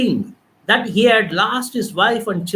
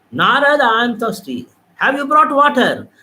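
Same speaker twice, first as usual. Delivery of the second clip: higher call of Krishna; lightly voiced Krishna, a little higher; Krishna's voice; 3 semitones higher, 4 dB louder than usual. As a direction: voice the god calling for water. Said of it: "This was Krishna's voice".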